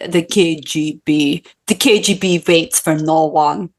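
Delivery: slow mock Russian slipping into German; badly faked German-Jamaican take on Russian; botched Russian accent, German-sounding. Testing Russian for co-host, botched German-sounding accent. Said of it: "just doing German a little bit with Jamaican".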